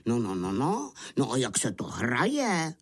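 lightly voiced puzzled wolf; puzzled wolves. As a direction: ask with a hint of bewildered wolf. Surprised wolves ask about the game. (lehce zahraný nechápavý vlk)

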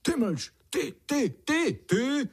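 very high squawking cries; very high bird squawk; wailing warbler. A narrator's reading. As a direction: wail out the wrong words. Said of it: "zanaříkala spletená pěnička".

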